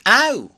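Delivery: sudden high loud yelp; sharp yelp of pain. Acted. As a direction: yelp as if jabbed. Struck by invisible voice.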